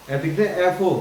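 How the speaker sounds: ordinary delivery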